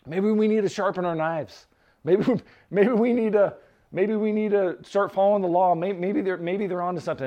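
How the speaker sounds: mock fretting, tripping over repeats; panicking. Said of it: "all these other guys are panicking".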